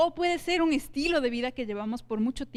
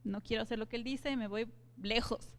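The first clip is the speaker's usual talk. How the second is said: mild Jonah retreat; 8 dB quieter than usual. Retold or imitated. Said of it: "como Jonás que dijo".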